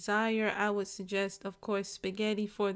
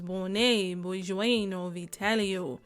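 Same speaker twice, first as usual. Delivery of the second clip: slow, lower-pitched put-on Italian name; mock Italian; 3 semitones lower, slower than usual. Cook pretending to be a real Italian while plating, mock Italian accent. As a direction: play at a drawn-out Italian accent. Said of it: "plate this like you're a real Italian, like your name is".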